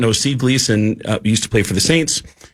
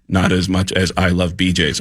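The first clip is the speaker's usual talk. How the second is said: voice box speech; 5 semitones lower than usual. Retold or imitated. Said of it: "and he said".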